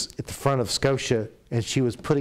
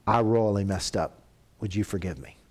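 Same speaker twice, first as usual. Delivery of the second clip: humble apology; 4 semitones lower than usual. Shown as a demonstration. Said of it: "walk in there and go".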